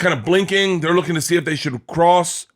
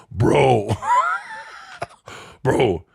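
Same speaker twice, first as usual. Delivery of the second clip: bad impression of Mike; 3 semitones higher than usual. Telling a friend how neighbor broke the news, mock shouting. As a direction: play the buddy who's stoked, half shouting. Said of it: "I'm gonna do a bad impression of Mike".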